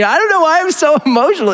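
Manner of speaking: high mock tearful laugh; imitated laughing and crying. Friend suddenly freed to feel, mock laughing and crying. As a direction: act out an overwhelmed laugh-cry. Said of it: "like, laughing and crying".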